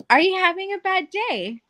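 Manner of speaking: high-pitched, exaggeratedly sweet question; overly nice. Dealer repeats herself to hostile player, overly nice. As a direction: repeat it with sugary concern. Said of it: "but, like, overly nice".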